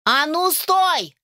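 high, slow drawn-out yell; shout. Acted. Mother shouting after her fleeing son, high drawn-out yell. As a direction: yell after him as he runs. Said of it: "крикнула мама".

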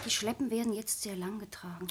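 muttered whisper, half-reading. Acted. Sabine skimming the paper alone, whispering. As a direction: whisper the line to yourself, uninterested.

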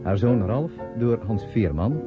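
ordinary talk, nothing marked

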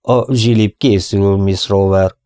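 slow, heavy, reluctant answer; grim old cowboy reply. Acted. Old Bob answering Molly reluctantly, slow and grim. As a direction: give as little away as you can.

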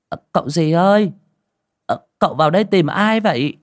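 high, loud woman's call; curious village woman. A narrator's reading. Village woman asking stranger whom he seeks, high calling voice.

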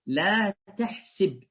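تحسب said tahsib, with i on the s, slowly; kasra form. Retold or imitated. Teacher quotes the Prophet to Laqit, tahsib with i. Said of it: "هكذا قالها".

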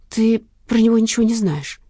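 sharp defensive retort; snapping back. A narrator's reading. Lena defending her boyfriend, snapping. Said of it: "огрызнулась Лена".

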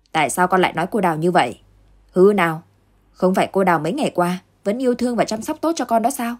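grumbling scold. Acted. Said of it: "cằn nhằn nói".

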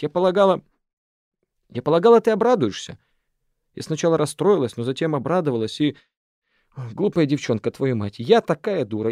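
выше и громче, с досадой на себя; сорвись в обиде и стыде; обиженно. Acted. Шана в обиде кричит. (Шана, отвергнутая Арафом: обиженные громкие выкрики)

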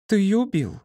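high shrieking cry of horror; horrified cry. A narrator's reading. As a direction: scream it out, choking on terror. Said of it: "закричала вдруг Поня, захлёбываясь ужасом". (крик, захлёбываясь ужасом)

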